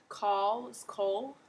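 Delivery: slow careful call with the Australian vowel. Shown as a demonstration. Teacher comparing the vowel in call slowly. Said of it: "It's like that ah sound".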